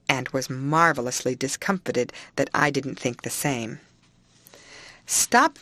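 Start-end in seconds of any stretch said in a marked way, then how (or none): 5.1-5.6 high, loud cry of stop; sharp interruption. A narrator's reading. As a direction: cut her off sharply. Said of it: "I interrupted".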